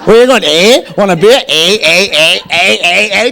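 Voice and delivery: mock Canadian eh; lightly hammed Canadian eh at each line; Canadian "eh" mimicry; Canadian accent. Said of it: "annoying habit".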